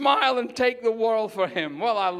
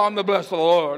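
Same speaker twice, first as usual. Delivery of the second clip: unhappy, joyless, glum tone, lower and louder; 3 semitones lower, 5 dB louder than usual. Showing the congregation how not to say the line: unhappy, joyless delivery. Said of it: "Look like you're happy. Don't go".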